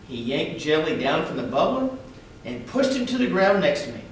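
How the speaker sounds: expressive read-aloud for schoolchildren; story narration. A narrator's reading. Reading a picture book aloud to schoolchildren, storyteller voice. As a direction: tell it gently to a class of kids.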